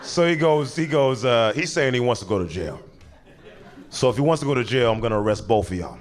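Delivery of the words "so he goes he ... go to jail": breaking into laughter mid-story; can't stop laughing while telling; cracking up. Real, not acted. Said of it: "we're cutting this out".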